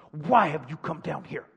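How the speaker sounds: put-on understated scolding from an older brother; restrained big-brother telling-off. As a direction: scold your kid brother, held in. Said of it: "older brother scolding tone".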